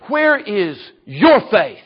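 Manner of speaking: slow, measured, lean on your; slow searching question. Acted. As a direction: ask it gently, letting each word land. Jesus questions the frightened disciples.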